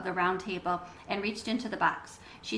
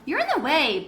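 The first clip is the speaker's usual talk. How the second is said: louder, pushy complaint; loudly; 5 semitones higher, 6 dB louder than usual. A narrator's reading. Bat to Janie blocking his view, loud and pushy. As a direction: shove the words at your sister. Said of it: "Bat said loudly".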